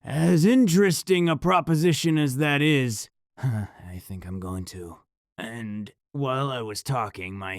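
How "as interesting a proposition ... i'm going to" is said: hiding fear behind a casual, sighing tone; forced calm. Acted. Narrator answering the possessed girlfriend, forced calm with a sigh. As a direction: stay cool so the thing doesn't sense fear. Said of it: "as calmly as I could manage".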